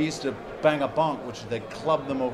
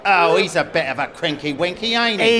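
put-on East End accent; 3 semitones higher, 5 dB louder than usual. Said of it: "that sounds so East End".

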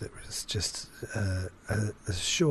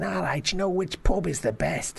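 lightly raised Scouse query; Scouse accent; 5 semitones higher than usual. Acted. Jerry asking someone in the street, light Scouse accent. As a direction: ask casually with a Scouse lilt. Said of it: "like, saying".

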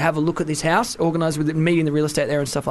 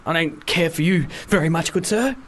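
mock posh gentleman. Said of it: "was like, you know".

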